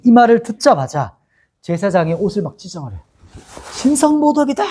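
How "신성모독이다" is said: outraged cry. Acted. High priest crying blasphemy on hearing Jesus, outraged high cry. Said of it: "이렇게 소리치자마자".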